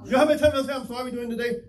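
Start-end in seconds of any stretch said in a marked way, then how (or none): 0.7-1.1 much softer, under-the-breath apology; talking to oneself. Retold or imitated. Preacher retells apologising to himself during the day, hushed self-talk. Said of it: "having a conversation by yourself".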